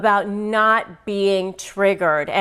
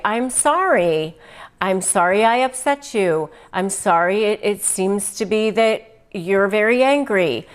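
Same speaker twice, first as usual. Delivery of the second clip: calm apology. Shown as a demonstration. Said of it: "you can say".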